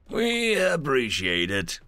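slow, relieved thanks. Acted. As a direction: let the relief show. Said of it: "sounding relieved".

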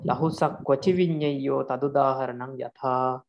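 chanted scripture quote; verse recitation. Shown as a demonstration. Monk recites the rule verse to his student, steady chant. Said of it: "what is that verse?".

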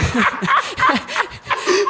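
high wheezy laugh; high giggling burst; helpless laughter. Real, not acted. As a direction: keep cracking up. Still cracking up.

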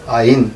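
আইন said as a firm, clear ain; suffix আইন said clearly. Shown as a demonstration. Teacher answers his own question, আইন said firmly. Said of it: "কি উচ্চারণ করব?".

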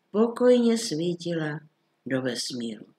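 plain reading voice

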